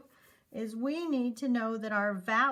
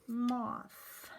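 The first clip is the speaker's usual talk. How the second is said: ordinary talk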